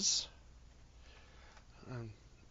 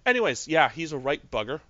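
Connery-style Scottish; 3 semitones higher, 6 dB louder than usual. Acted. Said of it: "once you go full Connery".

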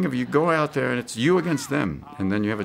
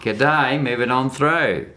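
broad mock Australian accent, pitched up; 3 semitones higher, 3 dB louder, much slower than usual. Shown as a demonstration. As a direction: demonstrate a put-on Aussie accent, higher. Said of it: "You combine it and go".

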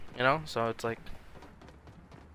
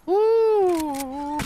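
high-pitched squealing whoop and giggle, much higher; squealy whoop; 4 dB louder than usual. Real, not acted. Gamer squealing in delight at a kill. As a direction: let the excitement squeak out high and loud. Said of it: "I'm really squealy".

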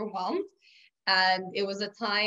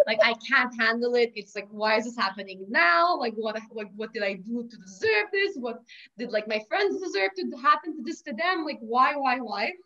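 mock tantrum; 3 dB louder than usual. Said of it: "I start swearing, I start cursing".

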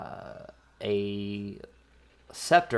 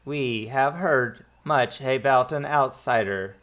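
measured, halting translator droid; lightly robotic, words spaced out; 3 semitones higher, slower than usual. Acted. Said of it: "you hear the droid in the background".

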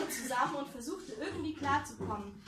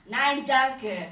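much louder curt refusal; hissed no thanks; 13 dB louder than usual. Acted. Man curtly turns away the flirting maids. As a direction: shut them down hard. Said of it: "Mit diesem Zischen".

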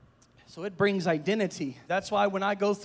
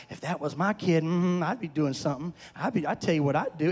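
lightly voiced gossiping diners, lower; 4 semitones lower than usual. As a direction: mimic the next table's disapproving talk, pitched down. Voicing diners gossiping at next table.

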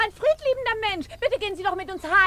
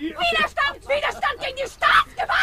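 indignant cry; 6 semitones higher than usual. Acted. Official crying resistance.

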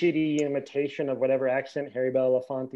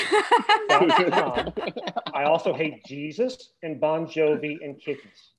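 mock confession; 4 dB louder, much slower than usual. Sarcastic over-the-top confession.

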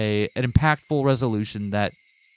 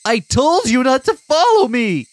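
slow, high furious yell; 14 semitones higher, 7 dB louder, slower than usual. Acted. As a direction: shout it out at her, drawn out. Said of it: "so I yelled at her once more".

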